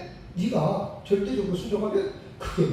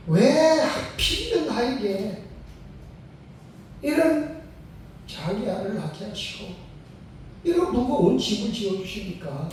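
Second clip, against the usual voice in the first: a slow, pleading lament that climbs higher; a drawn-out, aggrieved cry upward; complaining prayer; 5 semitones higher, 3 dB louder than usual. Retold or imitated. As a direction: retell the mother's bitter complaint to God. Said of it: "하고 하나님 앞에 불평도 하고 원망도".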